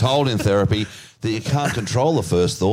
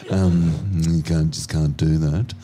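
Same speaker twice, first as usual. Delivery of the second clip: steward's mild reprimand; 5 semitones lower than usual. Retold or imitated. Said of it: "and he's like".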